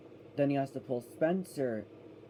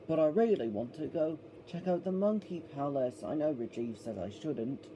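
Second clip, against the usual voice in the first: Thomas impression. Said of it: "some John Bellis Thomas impression".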